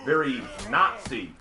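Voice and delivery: mock-severe German caricature; stern German accent. Shown as a demonstration. Streamer lists German voices on request, mock-stern German accent. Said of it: "I can only do three Germans".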